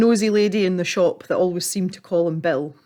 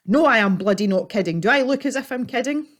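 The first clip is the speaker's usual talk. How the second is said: indignant; 5 semitones higher than usual. Acted. Old man angry.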